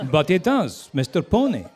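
slurred Scottish film-star impression; Sean Connery. Shown as a demonstration. Narrator revealing Pedro Pony's father, Scottish Connery impression. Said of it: "sound a bit like Sean Connery".

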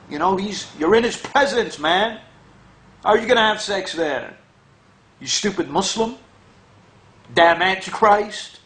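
lightly hammed-up outrage at the Muslim; mock Christian scold. Mocking a Christian berating Muslims, hammed-up outrage. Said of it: "I like saying that for fun".

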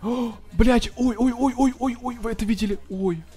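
high, startled oh-oh-oh; shocked. Real, not acted. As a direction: react in disbelief. Shocked reaction in game.

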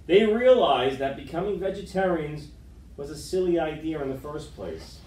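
lively picture-book read-aloud; story narration. A narrator's reading. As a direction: read to the kids with gentle drama.

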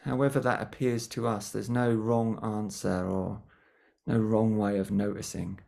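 gentle guiding voice with long pauses between phrases; guided meditation. Real, not acted. Teacher settling a group before a mindfulness session, guided meditation. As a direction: ease listeners into stillness, leaving lots of silence. Leads a short grounding meditation.

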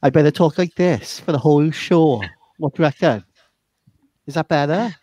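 lightly put-on Welsh accent. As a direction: chat along in a playful Welsh accent. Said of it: "I better put my Welsh accent on today".

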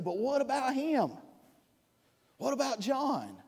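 a hint of a wounded disciple asking what about John; Peter's protest. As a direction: ask it like a jealous disciple pointing at someone else. Peter questioning Jesus about John.

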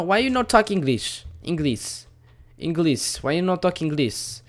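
high-pitched mock broken-English accent; mock foreign accent. Mock broken English at game character.

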